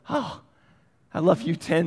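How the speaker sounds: put-on a father touched by his little girl; tender oh. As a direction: melt at the child's words. Father moved by daughter.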